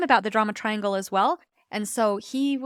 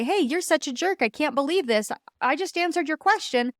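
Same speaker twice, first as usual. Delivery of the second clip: "I just answered your question" pushed higher and accusing, a mock angry retort; mock the hurt partner hitting back; persecutor energy; 5 semitones higher than usual. Husband hitting back at his wife, mock angry and higher. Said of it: "He could have come back through the persecutor energy".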